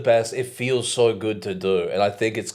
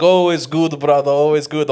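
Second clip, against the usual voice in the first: a louder, higher cheerful clerk; store clerk reply; 5 semitones higher, 5 dB louder than usual. Retold or imitated. Convenience store clerk replies to a regular, loud and cheerful. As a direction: beam it back like the shop clerk. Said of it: "He's like".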